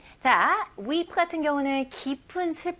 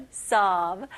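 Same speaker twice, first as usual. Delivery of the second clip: loud sob demo; 2 semitones lower, 5 dB louder than usual. Shown as a demonstration. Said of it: "sob 같은 경우는 큰 소리로 몹시 울 때".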